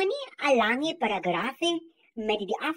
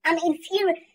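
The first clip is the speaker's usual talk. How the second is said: heated, raised voice, working up to a rant; angry; 4 semitones higher, 4 dB louder than usual. Real, not acted. Venting to viewers about Afrikaans teachers, angry and raised. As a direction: let the frustration spill out, a little louder. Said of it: "I'm so angry right now".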